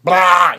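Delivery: a loud, high nonsense "blah"; a goofy loud blah. Shown as a demonstration. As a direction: blurt it out as filler. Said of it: "I'll just".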